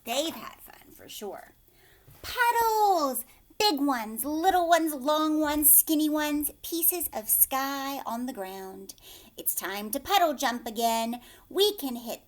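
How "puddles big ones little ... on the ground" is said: high, loud delighted exclamations; thrilled discovery for little kids; excited storytelling. A narrator's reading. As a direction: announce every puddle like a treasure. Excited listing puddles.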